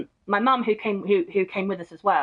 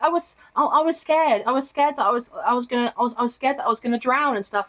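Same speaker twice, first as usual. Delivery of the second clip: put-on higher, whiny child's voice for the scared cousin; scared little cousin; 4 semitones higher than usual. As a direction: play the frightened seven-year-old, pitched up. Cousin's tearful excuse, retold.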